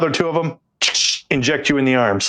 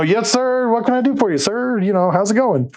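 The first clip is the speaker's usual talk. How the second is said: nervous recruit; 5 semitones higher than usual. Retold or imitated. Trainee nervously addressing the officer.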